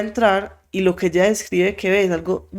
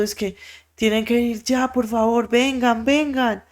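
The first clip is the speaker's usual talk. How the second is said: desperate pleading; 5 semitones higher than usual. Retold or imitated. Desperate neighbour begs them to come.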